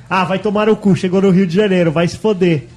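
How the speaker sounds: rude Rio steward. Retold or imitated. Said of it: "Ele muda o tom".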